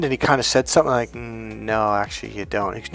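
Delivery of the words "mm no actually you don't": lower, softly spoken correction; calm contradiction. Retold or imitated. Coach correcting his client, calm. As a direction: quietly deny it, unmoved.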